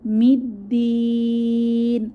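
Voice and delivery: tajweed reading; Quran recitation. Shown as a demonstration. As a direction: chant it slowly, the long vowel at the end stretched. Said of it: "তাহলে আমরা কিভাবে পড়ব".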